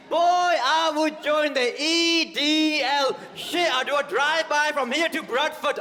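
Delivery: high, loud, slow shouted rant; hammed-up bigot rant. Comic mocking what he can't say on stage, shouted. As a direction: bellow it like an unhinged racist. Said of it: "I can't come out here and be like".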